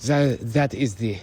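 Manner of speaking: high, loud, camp put-on voice; really gay voice. Shown as a demonstration. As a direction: stretch the words in an exaggerated camp lilt. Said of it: "like, really gay".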